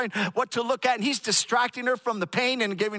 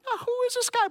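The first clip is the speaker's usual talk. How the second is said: surprised. Retold or imitated. Husband sees stranger holding wife.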